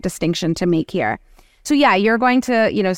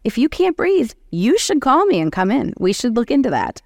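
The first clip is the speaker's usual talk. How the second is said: earnest advice; 3 semitones higher than usual. Retold or imitated. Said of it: "it can't hurt to say".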